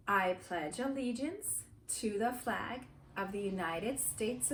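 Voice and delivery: measured recitation in short phrases; group recitation. Real, not acted. Teacher leading the class in the Pledge of Allegiance, measured recitation.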